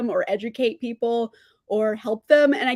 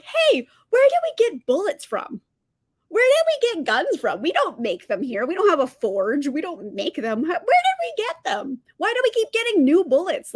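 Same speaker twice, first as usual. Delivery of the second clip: mocking townsfolk; 4 semitones higher than usual. Voicing clueless townspeople.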